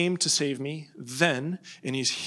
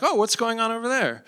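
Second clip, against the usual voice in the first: curious king; 7 semitones higher than usual. Acted. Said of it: "Alexander's up on his thing".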